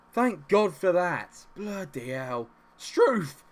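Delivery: loud, high, drawn-out exclamations; explosive relief. Real, not acted. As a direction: let out all the tension after the goal. Relief after the goal.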